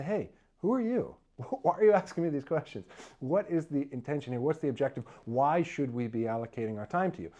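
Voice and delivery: who are you, half laughing in disbelief; incredulous. Pretend. Mock incredulous reply to questioner.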